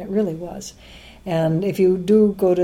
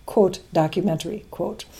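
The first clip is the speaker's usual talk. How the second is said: sarcastic air quotes; 4 dB quieter than usual. Real, not acted. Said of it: "it has to be in quotation marks".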